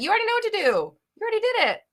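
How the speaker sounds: high loud insistence; exasperated. Real, not acted. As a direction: push it at her, incredulous. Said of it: "big sister wants to yell at you".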